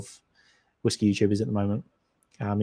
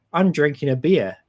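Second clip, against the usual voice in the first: New Zealand accent; 3 semitones higher than usual. Shown as a demonstration. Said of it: "terrible New Zealand accent".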